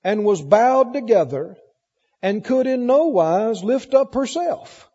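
deliberate, emphatic Bible reading with long pauses; scripture reading. Real, not acted. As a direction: read the verses out to a congregation.

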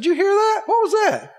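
high-pitched, startled questions; astonished, pitch jumping right up; startled onlooker. Acted. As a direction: act out a bystander caught by a sudden noise. Acting out startled crowd hearing voice.

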